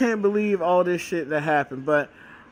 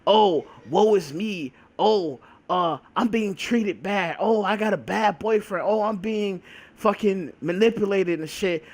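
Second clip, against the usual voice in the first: mock self-pity whine. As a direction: whine like a melodramatic victim. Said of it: "be like".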